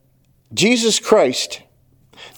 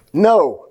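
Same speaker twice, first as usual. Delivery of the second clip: "know" set apart and weighted; preacher isolating "know" with emphasis; stress on know. Shown as a demonstration. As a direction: land firmly on the single word "know". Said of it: "underline that word".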